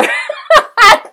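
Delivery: high, loud nervous giggle; real burst of high laughter. Real, not acted. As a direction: laugh off the worry.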